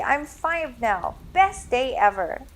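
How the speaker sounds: put-on high excited child; bouncy five-year-old; little boy voice. A narrator's reading. Boy's birthday joy.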